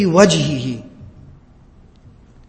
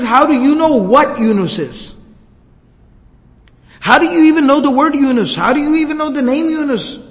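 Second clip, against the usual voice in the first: beside himself; 5 semitones higher than usual. Acted. Addas beside himself at hearing Yunus named, high shocked outburst. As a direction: pour out disbelief, voice up high. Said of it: "Now Addas is just beside himself".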